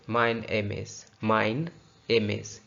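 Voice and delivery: "माइन एम इज" split as "mine / em-is"; two-part drill of "माइन एम इज"; relinked syllables. Shown as a demonstration. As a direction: carry the n into "माइन", then say "एम इज". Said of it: "ये कर दिया माइन".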